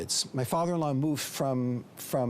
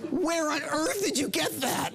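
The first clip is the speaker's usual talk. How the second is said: high, drawn-out amazed question; incredulous; 13 semitones higher, slower than usual. Acted. Amazed student going back to his rabbi, incredulous. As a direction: stretch it out in high-pitched disbelief.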